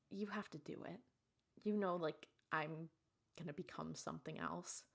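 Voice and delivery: soft, subdued sickbed voice; acted low-energy resignation; hushed plea. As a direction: plead quietly, as if weak. Retold dying wife pleading.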